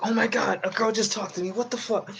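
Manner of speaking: high-pitched mock panic; Merce spazzing out. Streamer mimics his friend after a girl talks to him, high frantic freak-out. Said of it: "he starts just spazzing out".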